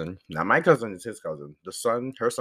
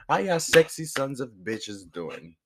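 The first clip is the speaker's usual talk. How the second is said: slow teasing greeting; 2 semitones higher, slower than usual. Acted.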